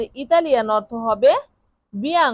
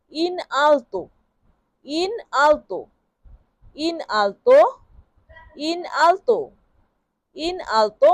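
slow pronunciation demo; 2 semitones higher, much slower than usual. Shown as a demonstration. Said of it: "এটাকে Italian ভাষায় বলতে হবে".

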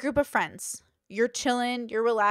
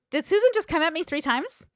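higher, mildly acted disbelief; incredulous; 5 semitones higher, 4 dB louder than usual. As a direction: question it as if taken aback. Acting the stunned target of jabs.

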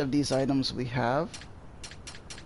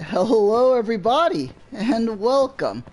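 hyped streamer intro; 6 semitones higher, 7 dB louder, slower than usual. Real, not acted.

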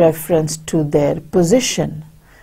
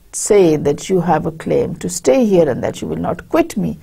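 upset, nervous. Acted. The upset employer scolding Bartleby, a touch agitated. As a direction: voice him rattled and pressing. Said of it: "very upset and he's very nervous".

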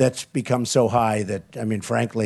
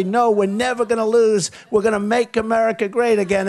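louder, higher rally answer; proud reply; 9 semitones higher, 3 dB louder than usual. Retold or imitated. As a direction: boom it back at the begging crowd. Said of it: "I'll say".

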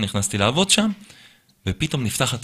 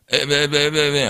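confused stammer; 3 semitones higher, much slower than usual. Retold or imitated. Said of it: "הוא מתחיל להתבלבל".

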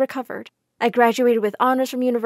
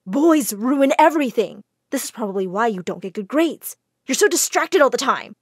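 yelling; 4 dB louder than usual. Acted. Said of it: "She started yelling at me".

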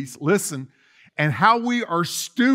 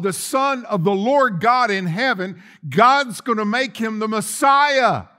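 preaching shout; 4 semitones higher, 4 dB louder than usual. Real, not acted. Preaching at full force.

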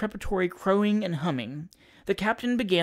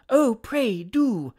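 high-pitched eager coaxing; eager plea; 6 semitones higher, 3 dB louder, much slower than usual. A narrator's reading. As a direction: cry it out, pleading prettily. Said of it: "cried all the young ladies".

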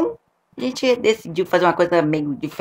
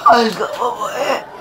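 laughing; 4 semitones higher, slower than usual. Retold or imitated. Laughing mock agony.

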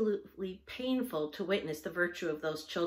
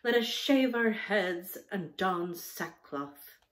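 mock-tragic proclamation; 4 dB louder, slower than usual.

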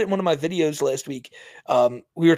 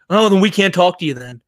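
smug mimicry, a little louder; Sally; 5 dB louder than usual. Streamer imitating Sally's refusal to the cops, smugly. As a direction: imitate her with smug self-satisfaction. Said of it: "Sally in this smug fucking voice says".

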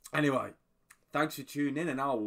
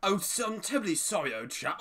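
lightly imitated British gent, pitched up; mock British politeness; 6 semitones higher than usual. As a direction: quote a polite British monster. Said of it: "He's British!".

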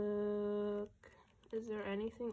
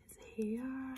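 whispering; 3 semitones higher, 5 dB quieter than usual. Real, not acted. Awed whisper.

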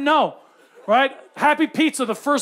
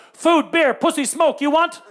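lightly voiced street hawker, pitched up; street vendor pitch; 4 semitones higher, slower than usual. Cambodian motorcyclists tout to passing tourists, vendor pitch. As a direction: call out a quick menu to tourists.

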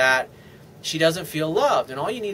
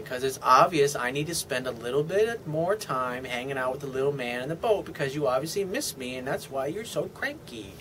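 sweet lovey talk; 3 semitones lower, 4 dB quieter than usual. Shown as a demonstration. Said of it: "little sweet, lovey talk".

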